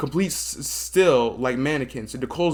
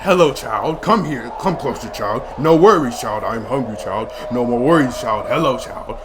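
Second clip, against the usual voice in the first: put-on old woman whispering; 5 dB louder than usual. Monster at the door.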